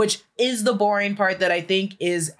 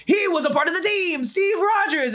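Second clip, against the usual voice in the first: accusing voice; 9 semitones higher than usual. Retold or imitated. Voicing the accusers.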